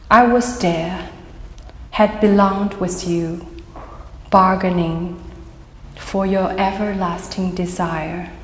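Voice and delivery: measured poetry recital with pauses between phrases; poem reading. Acted. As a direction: read it as an elegy, line by line. Reads own poem aloud.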